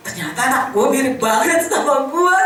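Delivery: laughing realization. Real, not acted. Preacher laughing at herself about her daughter, amused. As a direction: laugh through the words at yourself.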